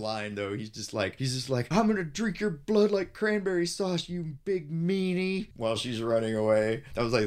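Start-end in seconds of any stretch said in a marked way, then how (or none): 1.7-5.5 turkey villain. Retold or imitated. Turkey's threat quoted.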